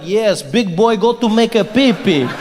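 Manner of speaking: put-on lightly done Russian accent, slow and sure; a hint of a Russian accent, calm and tough. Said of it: "I just speak to myself in a Russian accent".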